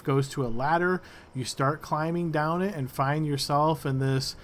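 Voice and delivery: slow, measured scene setting; game master narration. Acted. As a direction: paint the room slowly for players.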